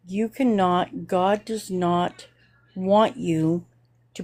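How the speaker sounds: slow, deliberate reprimand with pauses between phrases; retold stern admonition. Woman scolding a man over his religious picture, slow retold admonition. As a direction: spell out the prohibition slowly, phrase by phrase.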